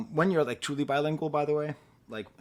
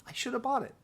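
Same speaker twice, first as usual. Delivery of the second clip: high whispered lament; mock regret; 9 semitones higher than usual. Husband regretting not buying the album, high whisper. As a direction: whisper it high like a petty grumble. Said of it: "I was like".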